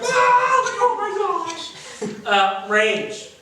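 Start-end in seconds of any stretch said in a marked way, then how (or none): 0.0-1.7 much higher, slow breathless laugh-cry; laughing hard. Shown as a demonstration. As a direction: squeal like you can't stop laughing. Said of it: "ranges from happy to almost like".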